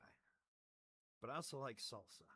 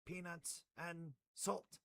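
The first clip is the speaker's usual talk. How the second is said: slow emphasis; 6 semitones higher, 3 dB louder, much slower than usual. Acted.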